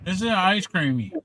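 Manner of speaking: eating while talking; mouth full. Real, not acted. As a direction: talk through a mouthful of dessert. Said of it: "Eddie, you're eating again".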